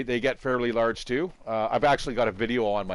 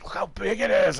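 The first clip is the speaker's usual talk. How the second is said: high-pitched mock exclamation; imitating wife; 9 semitones higher than usual. Wife filming the spider, imitated high exclamation. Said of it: "she's like".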